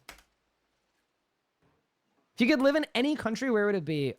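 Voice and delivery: drawn-out slow read of the question; slow, careful reading of a viewer's question. Real, not acted. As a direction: read it aloud slowly, word by word. Reading a chat question aloud.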